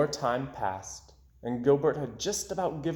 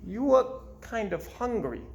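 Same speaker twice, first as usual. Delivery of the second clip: 1 friendly fish voice; 8 semitones higher than usual. Acted. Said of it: "Gilbert said".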